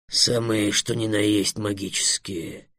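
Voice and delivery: low, slow, soft assurance; assuring dragon. A narrator's reading. Dragon assuring Trix that dragons are magical, calmly certain. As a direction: assure him gently and deliberately. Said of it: "уверил его Эллен".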